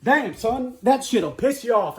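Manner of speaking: high-pitched exasperated outburst; aggravated. Real, not acted. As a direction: let the frustration spill over. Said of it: "I'm aggravated right now".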